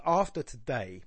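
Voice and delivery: "after today" with beats on "af" and "day"; stress on AF and DAY. Shown as a demonstration. Teacher demonstrating a trochee and iamb, "after today" stressed at both ends. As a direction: lean on the first and last syllables of "after today". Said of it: "trochee followed by an I am".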